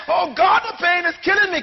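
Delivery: hammed-up cry of pain to God; mock anguished moan. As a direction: play a whining believer in pain. Acted complaining believer to God.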